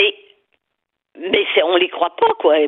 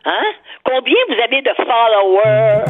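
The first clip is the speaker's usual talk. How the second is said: mock employer question; 3 semitones higher than usual. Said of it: "vous parlez de vos diplômes".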